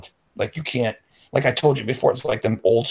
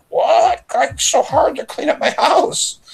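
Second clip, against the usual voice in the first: much higher, whining lazy friend; high whining mock complaint; whiny complaint; 4 dB louder, slower than usual. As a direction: whine like it's unbearable.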